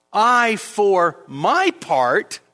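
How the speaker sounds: "I" and "my" stressed, drawn out slowly; very slow "I, for my part", contrasting "I" with others; emphatic. Shown as a demonstration. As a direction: spread out "I, for my part", weight on "I" and "my". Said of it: "is emphatic".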